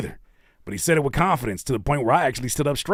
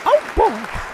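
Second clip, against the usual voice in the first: high falsetto cartoon squeak; Mickey Mouse. Host riffing on Disney's mouse, squeaky voice. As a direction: chirp it in a helium voice. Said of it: "his Mickey Mouse voice".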